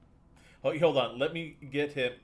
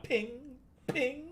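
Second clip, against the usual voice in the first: pinging sound effect; 13 semitones higher than usual. Acted. GM voicing rivets.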